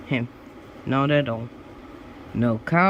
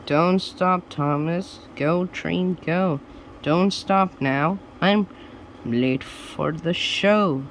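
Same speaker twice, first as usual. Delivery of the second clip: hurried judge; 3 semitones higher than usual. Acted. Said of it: "judge urging again".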